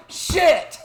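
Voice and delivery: high, loud retold yelp; mock panicked shout. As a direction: blurt it out as the caught-out guy. Retold guy realises his mistake.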